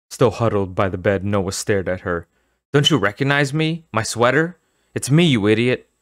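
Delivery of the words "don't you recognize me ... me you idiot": gruff voice. Acted. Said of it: "in the gruff voice".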